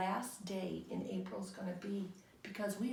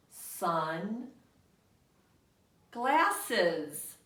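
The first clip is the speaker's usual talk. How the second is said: separate pictures; 6 dB louder than usual. Shown as a demonstration. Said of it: "what word are they trying to show us with pictures".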